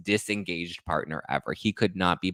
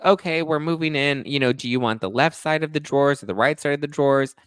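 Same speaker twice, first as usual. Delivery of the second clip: higher-pitched eager fiancee imitation; mock an eager partner, pitched up; lightly mocked fiancee; 5 semitones higher, 4 dB louder than usual. Fiancee to partner about moving in, lightly mocked.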